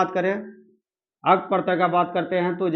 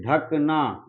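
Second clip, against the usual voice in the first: slow example; much slower than usual. Shown as a demonstration. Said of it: "teacher drawing out an example word".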